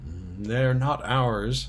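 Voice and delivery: slow, hesitant mm, unsure of himself; doubtful. Acted. Peter unsure about taking the coats, slow and doubtful. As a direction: drag it out doubtfully, slowly. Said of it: "said Peter doubtfully".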